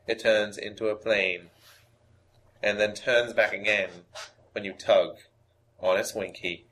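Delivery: lightly voiced narrator impression, deliberate pauses; Morgan Freeman. Co-host improvising the made-up reading, light narrator impersonation. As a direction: recite it like a measured storyteller, lightly put on. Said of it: "perfect my Morgan Freeman impression".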